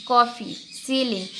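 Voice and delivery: कॉफ़ी and सीलिंग said slowly, the final ee held long; long ee sound demo. Shown as a demonstration. Teacher showing children the long ee sound, slow and clear. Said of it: "ये कुछ words हैं जिसमें ई आई".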